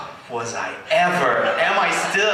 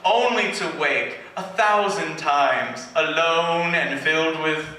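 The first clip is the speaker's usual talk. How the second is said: slow, mock-tragic reading in a put-on English accent; fake English accent; slower than usual. Poet reciting his old emo verse in a fake English accent. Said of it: "if I do a fake English accent".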